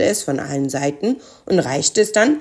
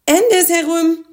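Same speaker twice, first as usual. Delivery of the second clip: high, slow, louder character cry; calling out; 12 semitones higher, 5 dB louder than usual. A narrator's reading. Spekulatius correcting Knötterchen's backfiring spell, calling out high. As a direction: shout the correction in a quirky high voice. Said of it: "rief Spekulatius".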